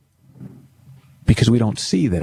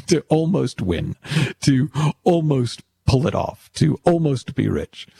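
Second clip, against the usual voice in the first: chuckling between phrases, pitched up; higher, self-mocking amusement; amused; 4 semitones higher than usual. Real, not acted. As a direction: let little laughs break up the list. Amused at own almoster label.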